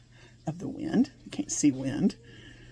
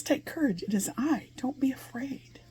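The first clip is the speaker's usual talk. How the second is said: tender reassurance; 5 semitones higher than usual. Acted. Jesus comforting frightened disciples.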